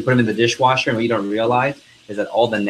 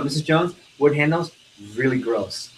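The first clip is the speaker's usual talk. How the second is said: wrong face; 2 semitones higher than usual. Shown as a demonstration. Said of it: "don't do the wrong face".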